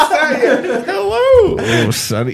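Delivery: lightly voiced old granny; a hint of a creaky grandma. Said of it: "my granny voice".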